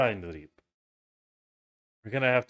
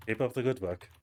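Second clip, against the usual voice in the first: put-on German accent. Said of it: "Alvarez went, went German".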